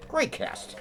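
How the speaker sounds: soft whispered afterthought; whispered echo. Real, not acted. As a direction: whisper it to yourself in admiration. Repeats praise of the cast.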